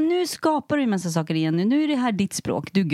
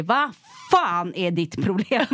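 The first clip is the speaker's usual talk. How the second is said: mock road rage; slower than usual. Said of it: "knackar på rutan och säger".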